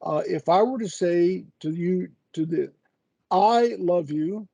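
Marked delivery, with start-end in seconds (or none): 3.3-4.5 "I" said a little slower and lifted, the rest lighter; stress on I. Shown as a demonstration. Explaining emphasis to a colleague, stress on "I". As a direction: lean on "I" in "I love you". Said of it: "the way you put emphasis on".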